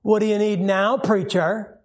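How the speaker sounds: mock-venomous, sarcastic challenge; venom dripping. Sarcastic shop owner to the returning preacher, mock venom dripping. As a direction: greet him with acted, dripping contempt. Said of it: "I mean, venom dripping".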